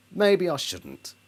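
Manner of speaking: "Maybe I shouldn't" said again slowly and deliberately; slow repeat. Shown as a demonstration. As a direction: let "Maybe" sink in slowly. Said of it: "Well, maybe I shouldn't".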